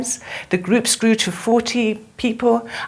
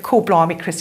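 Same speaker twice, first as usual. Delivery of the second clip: imitated Cockney, slightly lower; Cockney accent; 3 semitones lower than usual. Student exclaims to her workshop teacher, imitated Cockney accent. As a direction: lightly mimic a London Cockney. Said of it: "in her Cockney accent".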